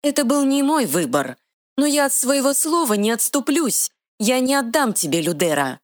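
high, quick little fairy voice. Acted. Fairy scolding the troll, high and bossy. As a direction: play a tiny sassy fairy, pitched high.

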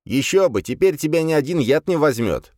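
loud, high smug demon; smug demon snort. A narrator's reading. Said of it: "хмыкнул Легион". (хмыкая, самодовольный демон)

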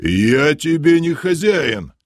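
high, drawn-out irritated yell; guard's yell. A narrator's reading. Guard rejecting the title of master, irritated yell. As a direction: bawl it at an annoying prisoner. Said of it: "заорал стражник".

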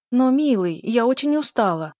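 выше и громче, капризно ноя; капризная жена ноет мужу; хнычет. A narrator's reading. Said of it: "Маша захныкала". (капризное хныканье)

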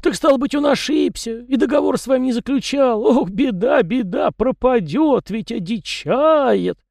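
high lament slowing to a drag at the end; grieving yard spirit, drawing it out; saddened lament. A narrator's reading. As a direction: wail over the lost friend, slowing down. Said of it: "тотчас погрустнел мужичок".

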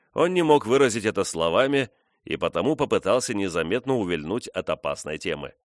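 plain reading voice

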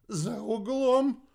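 high, loud, drawn-out answer; slow half-deaf shout; calling out. A narrator's reading. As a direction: call it out like someone hard of hearing. Half-deaf man calls out reply.

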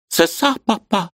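высокий картавый детский голос; пролепечи как малышка; детский лепет. A narrator's reading. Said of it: "залепетала девочка картавя". (высокий картавый лепет)

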